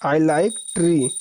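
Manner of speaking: I like tea drawn out very slowly; slow repeat. Shown as a demonstration. Teacher repeats the English line for students to copy, very slow. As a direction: repeat it slowly so they can write. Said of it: "चाय पसंद है".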